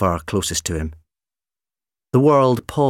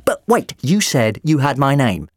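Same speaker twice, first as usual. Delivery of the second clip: high protesting doctor; 6 semitones higher, 4 dB louder than usual. Acted.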